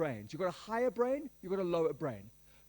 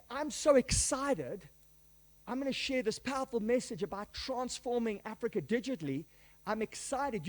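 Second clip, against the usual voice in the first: mock eager, slowed on so excited; lightly upbeat, sell the enthusiasm; 2 semitones higher than usual. Speaker before a presentation, lightly mock excited. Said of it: "If you go and say".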